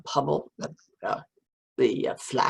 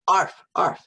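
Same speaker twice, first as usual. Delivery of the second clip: loud playful dog bark; 5 semitones higher, 7 dB louder than usual. A narrator's reading. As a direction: bark it out like a puppy. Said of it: "aboyait softly".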